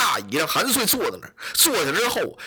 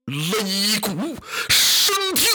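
commanding order; much slower than usual. Acted. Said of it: "当时吩咐一声".

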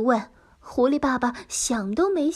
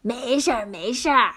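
cheerful reassurance; 3 semitones lower than usual. Acted. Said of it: "开心地回答".

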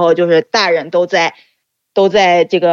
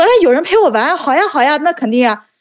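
eager, high child's yes, a touch hammed; delighted child; 7 semitones higher than usual. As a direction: recall a kid jumping at the offer. Child delighted at offer to play. (孩子般兴奋地答应)

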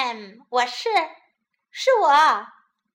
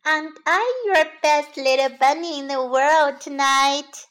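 little bunny voice; 3 semitones higher, 6 dB louder than usual. Acted. Bunny asking mother.

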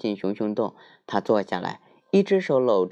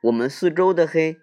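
little bear voice; 7 semitones higher, 5 dB louder than usual. Acted.

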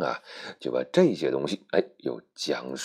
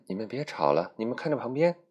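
Snow White; 7 semitones higher than usual. Acted. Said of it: "她说".

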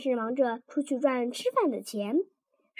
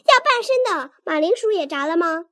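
大叫; 3 semitones higher, 5 dB louder than usual. Acted. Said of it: "大叫".

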